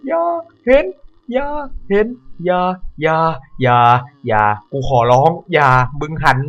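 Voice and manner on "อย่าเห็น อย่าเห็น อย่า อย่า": 1 desperate plea. Real, not acted. Hiding, begging not seen.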